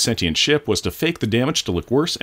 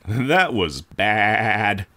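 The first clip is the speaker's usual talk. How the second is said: dramatic ominous line; much slower than usual. Pretend. Dramatic comment on the ship hit.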